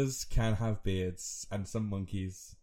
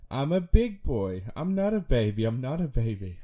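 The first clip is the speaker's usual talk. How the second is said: put-on stamp your foot like an offended four-year-old; upset little boy; 3 semitones higher, 5 dB louder than usual. Son insisting to dad he is no baby, loud childish protest. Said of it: "he gets really upset and he'll be like".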